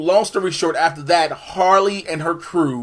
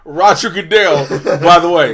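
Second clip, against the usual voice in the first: proud boast; 6 dB louder than usual. Retold or imitated. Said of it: "then he was like".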